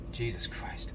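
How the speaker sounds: low, barely voiced whisper; hushed real exasperation; whispered dismay. Real, not acted. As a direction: whisper it to yourself in disbelief. Reacting to his own story.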